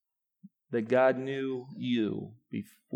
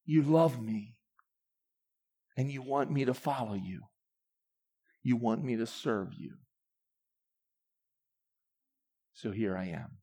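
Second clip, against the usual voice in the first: surrender prayer. Acted. Voicing a believer's surrender prayer.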